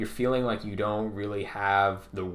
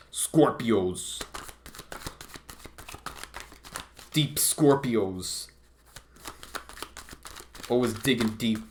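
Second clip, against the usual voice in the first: slow, drawn-out spooky announcement; mock-mysterious intro; 3 semitones higher, slower than usual. Tarot reader teasing Scorpios, slow mock-ominous intro.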